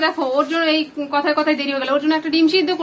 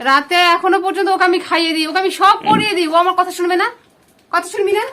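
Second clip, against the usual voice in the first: raised, louder voice of an exasperated mother; angry scolding; 5 dB louder than usual. Real, not acted. Mother scolds her daughter for not obeying, angry and loud.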